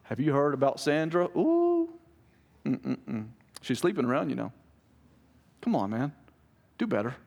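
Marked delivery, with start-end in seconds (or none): 0.0-4.5 hammed-up scandalized gossip; mock gossip. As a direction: imitate a tut-tutting busybody. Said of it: "it's not gossip".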